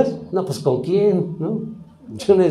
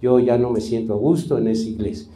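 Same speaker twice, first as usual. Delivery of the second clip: quoting Iván; 5 semitones lower, faster than usual. Retold or imitated. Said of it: "yo se los dije".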